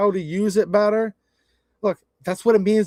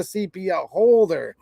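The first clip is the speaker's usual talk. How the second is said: "holder" given pointed weight; stress on HOLDER; slower than usual. Retold or imitated. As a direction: imitate someone emphasizing "holder". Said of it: "he emphasizes the word".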